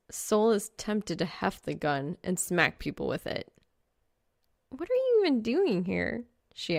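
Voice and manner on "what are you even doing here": put-on higher, brighter girl voice; light teasing girl voice; Reaper's voice. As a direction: voice the girl character up high. Female character voice, higher.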